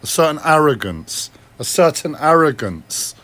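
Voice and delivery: repeated with growing emphasis; certain arrogance. Shown as a demonstration. Mocking the arrogance in his own voice, arrogant. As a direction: lean into an arrogant tone. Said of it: "speaking with a certain tone".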